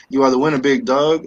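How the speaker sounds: loud, excited winner call; hyped giveaway announcement. Real, not acted. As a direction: shout out the winner with energy.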